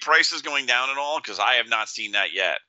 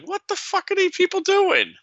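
high, disbelieving outburst; incredulous outburst. Retold or imitated. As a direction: blurt it out in shock. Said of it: "I was like".

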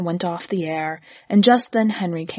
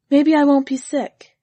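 higher, hopeful wife; a hint of wife voice higher; 6 semitones higher, 4 dB louder than usual. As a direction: lift it up, hopeful.

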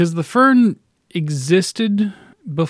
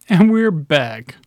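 slow host sign-on; much slower than usual. Acted. Back from a pause, on air.

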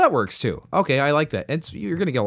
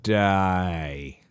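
put-on Australian accent; 4 semitones lower, much slower than usual. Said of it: "it's just getting offensive at this point".

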